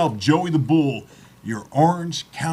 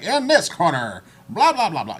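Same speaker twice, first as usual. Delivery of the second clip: boxing announcer; 4 semitones higher than usual. Retold or imitated. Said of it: "reminds me of the old school ring announcers".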